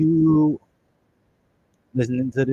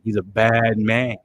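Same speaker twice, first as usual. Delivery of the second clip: slow, louder mock-hero delivery; Hawkman quote; 6 dB louder, slower than usual. Fan repeating his favorite Hawkman line, slow and louder. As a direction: drawl it out like the tough hero. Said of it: "he was like".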